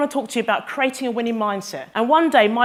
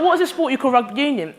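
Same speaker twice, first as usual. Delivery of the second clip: redone in her own North London voice, laughing; North London accent; 3 semitones higher than usual. Retold or imitated. She redoes her question as a North London kid, laughing. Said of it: "You don't have that accent there".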